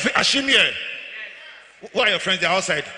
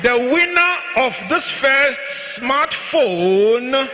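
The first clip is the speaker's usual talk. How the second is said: a slow, suspenseful prize reveal; drawn-out announcement; much slower than usual. Real, not acted. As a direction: stretch it slowly, building suspense.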